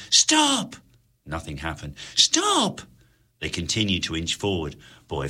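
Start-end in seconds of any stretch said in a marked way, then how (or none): 0.1-0.7 high, loud command; commanding cry. A narrator's reading. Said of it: "made the cry in his mind". 2.1-2.8 high, loud command; commanding cry. A narrator's reading. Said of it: "made the cry in his mind".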